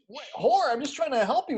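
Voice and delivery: surprised and a little hurt; shocked girl. Retold or imitated. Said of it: "And she's like".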